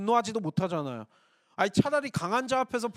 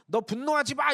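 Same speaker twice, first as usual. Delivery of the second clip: higher-pitched telling-off; mock prohibition; 4 semitones higher than usual. How God does not speak to Cain, mild scolding. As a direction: forbid it, raised in pitch, as the wrong reading. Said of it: "이런 게 아니라".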